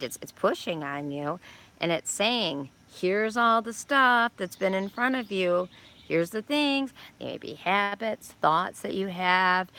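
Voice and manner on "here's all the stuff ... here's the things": voicing Saturn. Saturn voiced as speaking.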